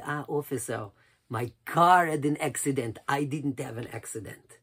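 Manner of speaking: put-on light European-accented rabbi, stressing "car". Rabbi correcting the police officer, lightly imitated European accent. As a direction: answer with a touch of a European accent. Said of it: "With his European accent".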